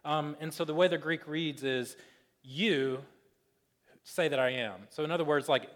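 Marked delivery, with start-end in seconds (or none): 2.4-4.9 "You" set apart, then a long pause; emphatic YOU. Shown as a demonstration. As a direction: land on "You" alone before finishing the phrase. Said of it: "Whenever you wanna show something's emphatic".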